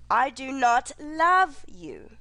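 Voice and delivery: "you" leaned on at the end, slow; slow, weight on "you"; stress on YOU. Shown as a demonstration.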